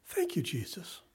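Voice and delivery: retold whispered prayer of relief; hushed thanks. Preacher recalls an aha moment in study, hushed whispered thanks. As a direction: whisper thanks to God, as if in private. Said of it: "I was like".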